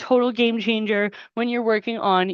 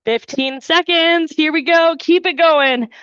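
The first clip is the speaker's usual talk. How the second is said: energetic coaching call; 5 semitones higher, 4 dB louder than usual. Real, not acted. Coach pushing class mid-set.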